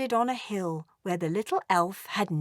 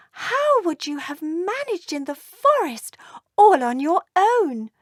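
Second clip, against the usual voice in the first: scolding mother dragon; 8 semitones higher than usual. Acted. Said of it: "she said".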